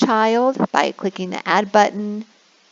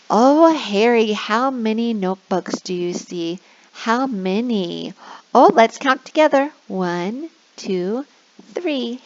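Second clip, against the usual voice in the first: put-on slow sing-song counting with a child; kindergarten teacher voice; 2 semitones higher, slower than usual. Shown as a demonstration. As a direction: draw a little kid into counting. Prompting child.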